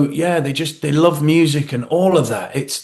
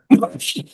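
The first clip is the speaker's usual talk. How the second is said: imitated laugh; 7 semitones higher than usual. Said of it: "you can hear Shane go".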